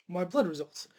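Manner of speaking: slow, choked-up words; fighting back tears; teary-eyed. Real, not acted. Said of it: "sorry, I'm getting teary-eyed right now".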